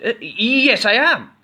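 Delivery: high, loud, odd goblin; unsure then proud goblin. A narrator's reading. Goblin accepting the crown, high loud. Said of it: "he said".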